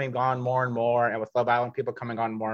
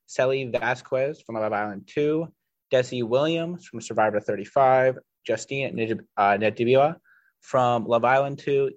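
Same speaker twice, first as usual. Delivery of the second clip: lightly put-on Mid-Atlantic accent. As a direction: read the cast list in a hint of Mid-Atlantic accent. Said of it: "I'll just put my best Mid-Atlantic accent".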